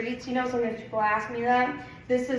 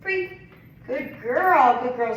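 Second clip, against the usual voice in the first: happy release; 2 semitones higher, 7 dB louder, slower than usual. Real, not acted. Releasing and praising dog.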